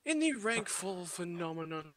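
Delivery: lightly put-on British host voice; a hint of a grand British announcer; mock British announcer. Caster opening the segment, in a light mock British accent. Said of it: "in a serious voice as well".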